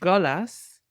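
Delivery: echoing syllable by syllable; staccato. Shown as a demonstration. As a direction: repeat each syllable after a pause. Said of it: "repeat after you syllable by syllable".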